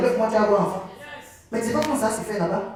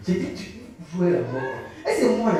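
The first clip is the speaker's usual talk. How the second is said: laughing. Real, not acted. Laughing at friend's story.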